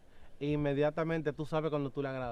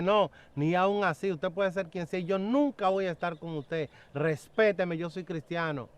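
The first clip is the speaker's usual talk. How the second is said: retold rebuke, raised in pitch and emphatic; indignant refusal; 3 semitones higher than usual. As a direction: put him firmly in his place. Retold rebuke of the insistent man.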